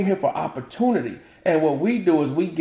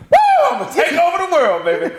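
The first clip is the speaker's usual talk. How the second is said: much higher, eager cheer; his younger self dreams aloud, high and eager; youthful bravado; 6 dB louder, faster than usual. Retold or imitated. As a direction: play the naive young go-getter. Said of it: "Bright-eyed and bushy-tailed".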